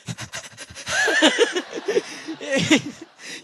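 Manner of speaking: mock crying. Acts tears returning after playing cool.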